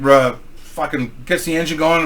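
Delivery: normal talking voice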